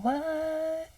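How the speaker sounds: a high, soft, startled "What?". Retold or imitated. Hearing the man call Trump a bag man, startled. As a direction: caught off guard, blurting it out.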